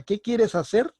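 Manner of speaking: high, punched "qué" opening the question; emphatic question. Shown as a demonstration. Teacher demonstrating a question to students, emphasis on "qué". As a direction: ask it with "qué" lifted high. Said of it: "te hago la pregunta".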